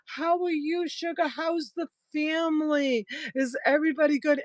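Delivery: high-pitched mock Southern chitchat; Southern accent. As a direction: gush like a Southern counter lady. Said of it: "I can't do the accent the way they do it down here".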